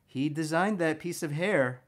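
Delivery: eager, rising "oh" at each find; excited discovery. Retold or imitated. Artist studying a master drawing, excitedly discovering. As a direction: gasp out each new discovery as it clicks. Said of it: "I'm seeing so many things like".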